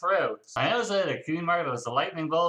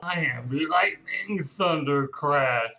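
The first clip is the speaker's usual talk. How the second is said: pompous hero intro; slower than usual. Acted.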